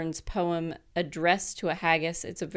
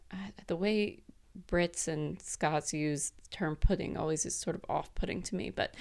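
whispered aside; 5 dB quieter than usual. Real, not acted. Confiding aside about the word pudding.

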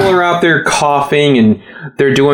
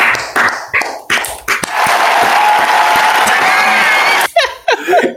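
crowd roar. Retold or imitated. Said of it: "And the crowd is going wild".

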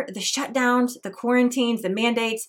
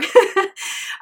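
tearful laugh; 10 semitones higher, 5 dB louder than usual. Real, not acted. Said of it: "Sorry, I'm getting emotional here".

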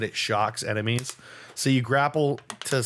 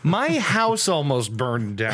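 slow, overdramatic shout; dramatic exaggeration; slower than usual. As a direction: ham up the disaster, slowly. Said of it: "I'm exaggerating a bit".

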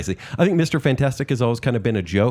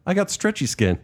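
higher, pitchman sell; over eager infomercial; 6 semitones higher than usual. Pretend. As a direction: pitch it like a late night ad. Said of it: "like, a late night infomercial".

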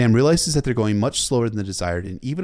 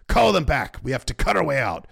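higher, forceful commander's yell; bellowed orders; 6 semitones higher, 4 dB louder than usual. A narrator's reading. Old bear ordering a retreat over the horns, bellowed. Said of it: "had to bellow at the top of his lungs".

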